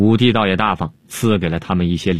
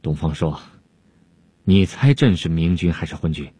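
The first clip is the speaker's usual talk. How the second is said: sarcastic insinuating tone; 4 semitones lower than usual. Acted. Emperor needles Dongfang Shuo, low sly sarcasm. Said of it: "阴阳怪气儿地说".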